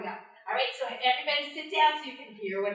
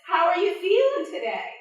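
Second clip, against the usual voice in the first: Anansi voice; 6 semitones higher, 6 dB louder than usual. Acted. Anansi voice in the story.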